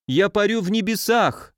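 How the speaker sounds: put-on high, gleeful drunken cry; joyful exclaim. A narrator's reading. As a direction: shout it in drunken delight. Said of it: "радостно воскликнул он". (радостно воскликнуть)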